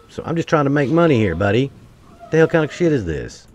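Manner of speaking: a furious trader yelling at a hostile planet; real angry rant. Real, not acted. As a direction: shout your frustration at the creatures. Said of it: "I'm mad right now".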